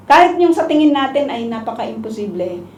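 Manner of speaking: ordinary talk, nothing marked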